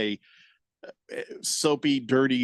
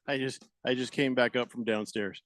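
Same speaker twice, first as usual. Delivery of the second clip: out of breath. Real, not acted. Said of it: "I could tell you were out of breath".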